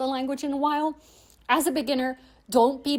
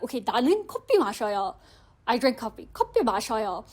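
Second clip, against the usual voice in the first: imitated Korean accent across both languages; much faster than usual. Shown as a demonstration. Learner imitating the accent while speaking Korean, Korean accent. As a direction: carry a Korean accent through Korean and English. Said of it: "accent you can imitate".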